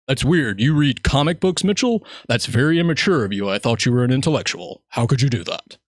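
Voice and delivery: rising mock scold on Mitchell; lightly voiced stuffy coworker; mocking disapproving adults. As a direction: imitate the prissy judgment. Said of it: "they took life so serious".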